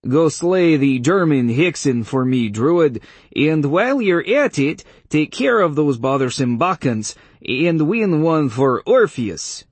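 hammed-up Polish accent impression of a witch; mock Polish accent. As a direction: lampoon her Polish accent with grand commands. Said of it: "changed my voice to her pitch and tried to affect a Polish accent".

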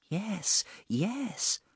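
high, soft, brushing-off woman's voice; impatient and dismissive. A narrator's reading. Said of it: "impatient and dismissive".

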